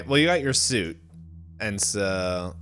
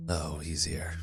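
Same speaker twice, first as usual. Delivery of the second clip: understated reaction; 6 semitones lower, 10 dB quieter, slower than usual. Acted. Duat's underwhelmed reaction, acted.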